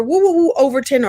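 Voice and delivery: as Sinclair, greeting Khadijah on set with a woo; Sinclair's woo. Retold or imitated. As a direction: call out the woo with big affection.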